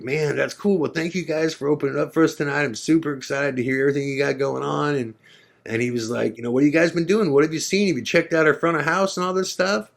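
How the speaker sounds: high, friendly rocker voice; friendly rock star. Retold or imitated. A rock star asking the band what they're up to, high voice.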